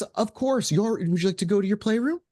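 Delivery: high, sweet motherly voice; warm smiling mom. Acted. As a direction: offer it kindly with a smile. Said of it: "a warm smile. She's".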